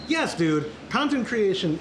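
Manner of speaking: ordinary talk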